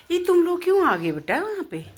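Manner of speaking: high, loud sing-out to the little ones; pet-parent calling out. Real, not acted. Owner asks her dogs why they came, high loud pet-talk.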